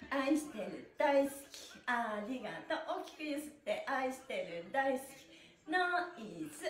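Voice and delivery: sing-song fitness instructor counting the beat; rhythmic stretch cueing. Acted. Instructor leading her stretch class, rhythmic sing-song cues. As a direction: lead the class through each move in time.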